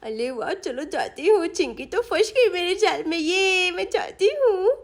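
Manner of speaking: put-on lightly babyish gloating, stretched at the end; gleeful little schemer. Sonam slips away after trapping Chinki, gleeful child voice. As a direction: gloat like a child whose trick worked.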